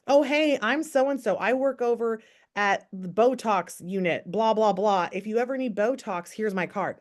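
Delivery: breezy cheerful card-handing pitch; upbeat networking pitch. Retold or imitated. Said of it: "they'd be like".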